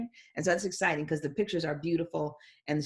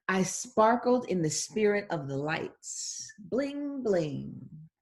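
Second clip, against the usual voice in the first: put-on sparkly little girl; much slower than usual. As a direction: make the bling shine. Reads girl's lines.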